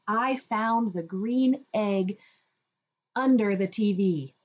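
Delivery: slow, clear, each word spelled out; slow model sentence. Shown as a demonstration. Showing an older child the full sentence, slow and clear. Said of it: "tell me a full sentence".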